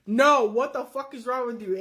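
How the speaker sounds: blunt, flat-out refusal; firm no. Retold or imitated. Shut it down hard. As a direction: boyfriend shutting down the bank idea, firm refusal. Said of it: "a soft no".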